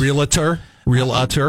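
extra middle syllable in Realtor, "REE-luh-ter"; common mispronunciation. Shown as a demonstration. Co-host asking what people wrongly say, mispronounced as REE-luh-ter. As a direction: say Realtor as three syllables, questioning. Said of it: "What do they say?".

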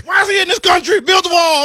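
high, loud mock yell at the driver; Trump supporter rant. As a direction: bellow it like an angry bigot. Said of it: "I start talking like a Trump supporter".

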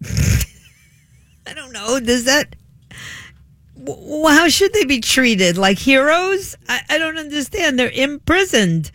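high-pitched, laughing disbelief; trying not to laugh. Real, not acted. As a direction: ask it incredulously through held-back laughter, pitched high. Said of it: "how to present this without laughing".

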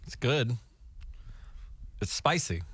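talking while chewing; words around a bite of jerky; mouth full. Real, not acted. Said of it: "Sorry, I'm eating".

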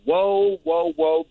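mock amazed whoa. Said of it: "You're, like, going".

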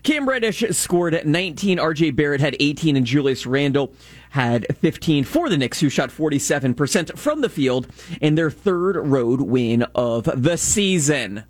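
measured sports update read; sports news read. Real, not acted. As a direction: read the scores like a radio update.

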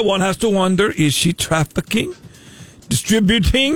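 hammed-up fake Canadian accent, a hint of Irish; bad Canadian accent. Prank caller as Canadian customs officer, bad Canadian accent. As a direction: play a Canadian customs officer badly, all 'eh' and 'there'. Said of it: "I told you it was the worst Canadian accent ever".

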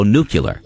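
the common slip, nuclear with "kyuh-ler" ending; mispronounced nuclear. Retold or imitated. Host mimicking people who mangle the word, mispronounced nuclear as "nucular". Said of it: "when I hear someone go".

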